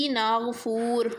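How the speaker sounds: ناگپور said with Arabic gh for g and f for p; Arabic-style ناگپور, "ghf" in place of "gp"; Arabicized pronunciation. Shown as a demonstration. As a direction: say ناگپور slowly as "Naaghfoor". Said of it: "گاف کی جگہ غین لکھیں گے".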